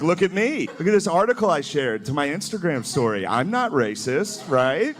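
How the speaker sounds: lightly mocked show-off, ending on a question; needy white poster. White person popping up online, needy plea for approval. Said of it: "a different white person popping up".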